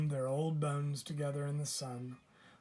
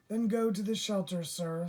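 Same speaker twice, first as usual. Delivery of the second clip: higher and louder, brisk shopkeeper; raised shop-lady voice pointing him onward; pet store lady voice; 5 semitones higher, 6 dB louder than usual. A narrator's reading. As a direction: brush him off brightly toward the shelter. Pet store lady answers Mr Putter.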